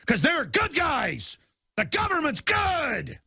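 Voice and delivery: slow, sneering sarcasm; mocking the government's fans; sarcastic mock praise. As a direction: drawl it out as if you believe it.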